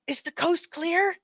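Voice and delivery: soft whispered question. Pretend. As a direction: whisper it, checking for danger. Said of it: "I just whisper".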